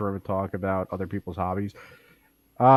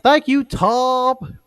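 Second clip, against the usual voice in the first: very high, very slow, louder exaggerated white newsman voice; talking really white; 7 dB louder, much slower than usual. Token told to sound white on the kids' news. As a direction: stretch it out like a prim anchor. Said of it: "tell Token to talk really white".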